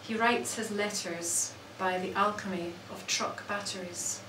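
measured recital with long pauses between phrases; poetry reading. Acted. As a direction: let each image land, then pause. Reads own poems aloud.

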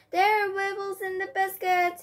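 a lightly voiced high squeal of a pirate; high screech. A narrator's reading. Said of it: "he screeched".

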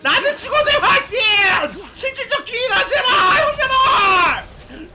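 high urgent shouting; 간절한 고함. Real, not acted. 기회 앞에서 간절히 외침. (높고 간절하게 외치는 목소리)

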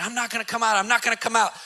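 ordinary delivery

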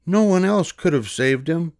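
put-on a small girl, bright and eager; little girl. A narrator's reading. Girl in crowd defends George, high girlish voice. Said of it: "said a girl".

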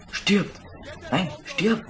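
frantic shout at a gamer's foe; shouting at enemy. Real, not acted. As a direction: scream at the enemy to die.

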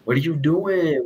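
put-on drawn-out Chicana accent with a long final N; Chicana accent, dragged ending. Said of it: "with, like, five fucking N's".

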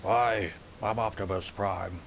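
lightly voiced noble robot leader; a hint of a commander introducing himself; mild Optimus Prime impression. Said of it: "I like my Optimus Prime voice".

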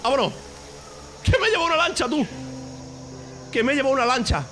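loud, high gleeful yell; exultant shout. Real, not acted. Player making off with a boat, exultant shout. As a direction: crow about the getaway at full voice.

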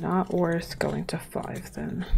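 whisper. Real, not acted. Muttering decision to self.

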